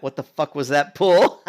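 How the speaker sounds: laughing mock outrage. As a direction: read the angry line but crack up. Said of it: "Then this guy goes".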